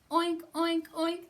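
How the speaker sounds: high, loud pig oinks; hammed-up piglet shout. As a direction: squeal it like an angry pig. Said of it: "that pig did shout".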